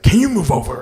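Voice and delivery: high, loud mimicking of a sleepy partner; a high mock voice of the girlfriend. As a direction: mimic her whiny plea to move over. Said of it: "wakes me up and is like".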